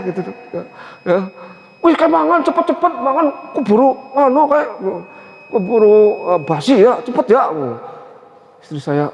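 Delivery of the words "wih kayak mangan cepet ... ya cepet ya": high, urgent call to come and eat; high-toned Tegal father. Retold or imitated. Tegal father calling the family to eat, high-toned. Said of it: "Bapak saya nadanya kalau bicara lebih tinggi".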